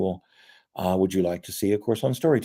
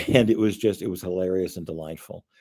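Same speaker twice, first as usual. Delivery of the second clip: ordinary delivery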